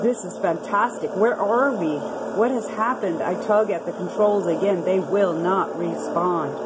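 measured, matter-of-fact log entries; reading a flight log. Acted. Preacher reading the admiral's log to his congregation, measured. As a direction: read it like a pilot's diary, steady and factual.

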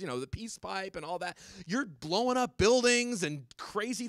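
high, loud mock appeal to fellow stoners; pleading pot magazine. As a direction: imitate a stoner magazine telling its readers off. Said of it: "a story that essentially said".

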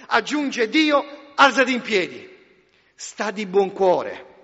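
loud, soaring preacher's voice; fiery pulpit proclamation; forceful preaching. Acted. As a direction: proclaim it to the whole hall.

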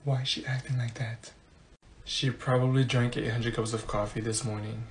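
low, hushed classroom grumble; muttered aside. Acted. Student to classmate about the perky teacher, low muttered aside.

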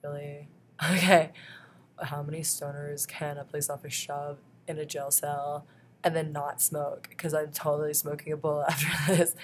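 giggling through the words; laughing. Retold or imitated. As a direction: laugh it off, amused. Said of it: "I was like, laughing".

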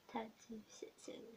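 quick soft whisper. Pretend. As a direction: breathe the numbers out. ASMR librarian roleplay.

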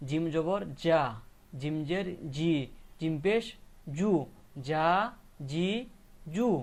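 firm, separate জা, জি, জু; spelling-out drill. Shown as a demonstration. Teacher answering how jim is pronounced, spelling-out drill. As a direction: recite জা, জি, জু, each after a gap. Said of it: "উচ্চারণ হবে কি".

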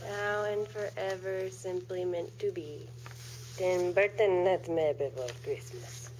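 a light mock Russian accent, slow and dreamy; slow, lightly Russian movie-trailer voice; put-on Russian accent. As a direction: read the tagline in a faint Russian accent. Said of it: "I went into this accent for it".

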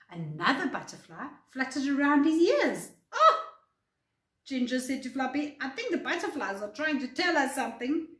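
lively, clearly paced read-aloud; expressive bedtime story narration; children's story reading. A narrator's reading. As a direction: read a picture book to young children. Reads a picture book to children.

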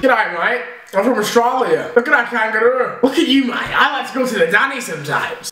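broad mock Australian; Australian accent. Son showing mum his accent, jokey Australian. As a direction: play up a chatty Australian accent. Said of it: "Australian accent".

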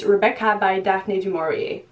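"Rebecca by Daphne du Maurier" in a clumsy English accent, "Daphne du Maurier" said like "Dafny doo Morry"; butchered English accent. Real, not acted. Booktuber naming her next read in a butchered English accent. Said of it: "the worst butchered English accent ever".

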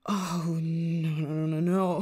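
low, tearful dismay; distressed. Acted. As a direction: whimper it as a friend collapses. Friend collapses, cry heard.

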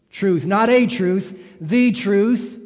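"the truth" with "the" stressed against "a truth"; the not a. Shown as a demonstration. Pastor correcting the article for the church, stressing "the". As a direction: contrast "a" and "the", landing on "the". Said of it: "to emphasize that word".

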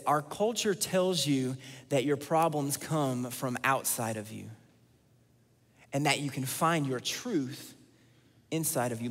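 slow and deliberate, each phrase set apart; measured slide reading; slow, weighty read. Shown as a demonstration. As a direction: read it slowly with long pauses. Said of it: "Let me say that again".

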